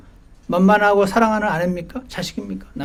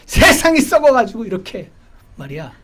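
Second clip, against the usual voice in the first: grumbling at the world; 5 semitones higher, 6 dB louder than usual. Retold or imitated. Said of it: "이렇게 생각하는 사람 많은 거".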